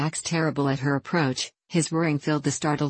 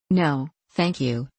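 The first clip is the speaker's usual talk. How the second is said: firm refusal; slower than usual. Acted. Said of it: "said Charlotte, firmly".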